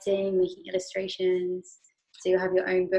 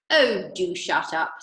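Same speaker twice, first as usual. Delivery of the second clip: slow, louder brush-off; Wonka dismissive; 5 dB louder, slower than usual. Acted. Mister Wonka brushing off Missus Salt, slow and louder. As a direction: wave her off, unhurried.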